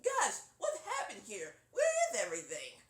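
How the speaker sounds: high, loud cartoon surprise; Roger's voice. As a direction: gasp at the empty room. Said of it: "that's Roger's voice".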